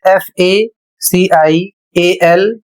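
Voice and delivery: slow, letter by letter; spelling out. Shown as a demonstration. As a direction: spell it out in small groups of letters. Teacher spells out a word. (धीरे-धीरे अक्षर बोलकर)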